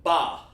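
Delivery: BA sounded out long, on its own; emphasis on BA. Shown as a demonstration. Teacher sounds out BA for students, emphasized by itself. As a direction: give BA emphasis and a clean break after. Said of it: "We want it to sound out".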